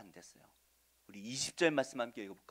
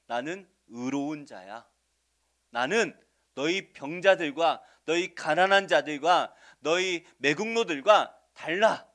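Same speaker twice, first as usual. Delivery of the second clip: smug Pharisee; 7 dB louder than usual. Retold or imitated. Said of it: "스스로는 뭐라고 생각해요?".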